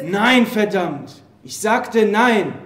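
slow angry denial. Acted. Accused soldier denies killing.

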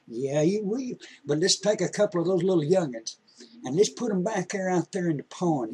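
lightly voiced old grandpa, patient and gentle; a hint of a country grandpa teaching his grandson; kindly grandpa. Storyteller plays grandpa at length.

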